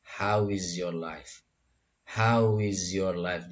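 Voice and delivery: "how is your life" slowly, words joined; unhurried, connected "how is your life"; slow linked phrase. Shown as a demonstration. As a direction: draw out "how is your life", linking each word. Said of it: "dibacanya disatukan di sini".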